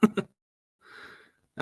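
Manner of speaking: glitchy, slowed robot voice; choppy bad-connection robot voice. Real, not acted. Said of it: "How the hell do I sound like a robot?".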